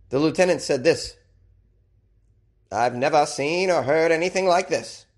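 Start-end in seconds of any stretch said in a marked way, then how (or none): 2.7-5.0 lightly put-on Maine accent, pitched up. Host voices police lieutenant in a light Maine accent. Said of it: "I gave him a Maine accent".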